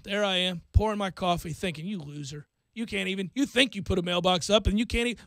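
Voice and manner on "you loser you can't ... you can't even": crestfallen self-talk. Retold or imitated. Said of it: "absolutely crestfallen".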